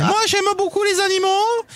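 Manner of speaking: high, breathy mock beauty contestant; pageant contestant voice. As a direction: parody a Mister France winner's speech. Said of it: "Et il a parlé des animaux".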